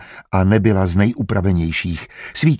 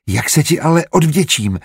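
higher-pitched, heartfelt question; sincere blurting; 7 semitones higher than usual. A narrator's reading. Woman wondering how to repay her helper, blurted sincerely. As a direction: let it burst out sincerely, pitched up. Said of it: "vyhrkla upřímně".

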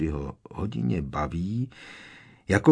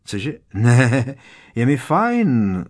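higher, louder, forced cheerful chatter; much higher voice; 3 semitones higher, 8 dB louder, much slower than usual. Acted. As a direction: cover your shock with bright small talk, pitched up. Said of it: "pořád tím nepřirozeně vysokým hlasem".

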